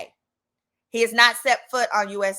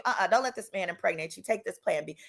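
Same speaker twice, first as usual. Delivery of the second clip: Jesus's warning; 4 semitones lower, 7 dB quieter, faster than usual. Retold or imitated. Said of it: "Jesus told me".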